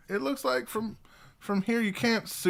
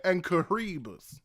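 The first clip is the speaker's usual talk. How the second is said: bayou local; 4 semitones higher than usual. Acted.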